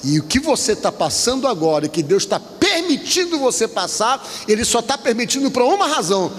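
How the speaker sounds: preacher's drawn-out, rising and falling exhortation; pregação exortativa. Real, not acted. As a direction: urge the congregation, stretching key words. (pregação enfática, palavras alongadas)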